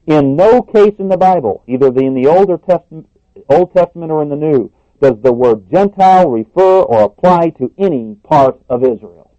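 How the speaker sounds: loud, high quoted emphasis; preacher booming a quote in capitals; emphatic capitals. Retold or imitated. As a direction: read it like it's in capitals. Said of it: "he puts it even in capitals".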